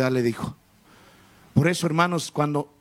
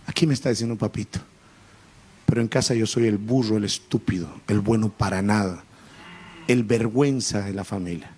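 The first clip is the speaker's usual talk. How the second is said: hurt son; 5 semitones lower than usual. Retold or imitated. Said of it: "el muchacho se puso a llorar y me dijo".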